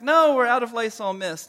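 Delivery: mock spousal yell back. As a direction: holler a reply from another room. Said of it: "then she yells back".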